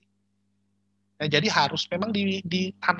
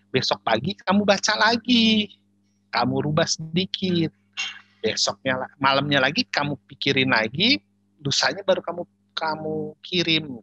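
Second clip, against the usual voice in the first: imitated yelling; 5 dB louder than usual. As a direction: keep imitating her loud instructions, easing down in pitch. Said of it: "istri bosnya selalu teriak gini". (menirukan omelan istri bos dengan lantang)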